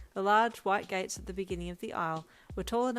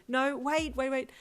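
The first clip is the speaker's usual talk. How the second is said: said quickly; 7 semitones higher, 4 dB louder than usual. Acted. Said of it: "you said quickly".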